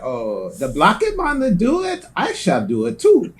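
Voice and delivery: slow, mock Norwegian accent; lightly put-on Norwegian accent. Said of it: "Was that your Norwegian accent?".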